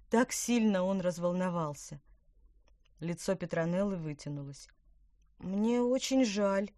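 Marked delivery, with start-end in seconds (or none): 5.4-6.7 slow, sorry and unsure; apologise, at a loss; flustered apology. Acted. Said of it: "растерянно сказала она".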